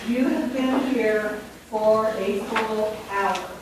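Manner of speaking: slow, every word laid out for the class; slow, deliberate. Shown as a demonstration. Teacher reading a sentence slowly to the class. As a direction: read it slowly so they hear each word. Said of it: "Would I say you have been here for a hour or an hour?".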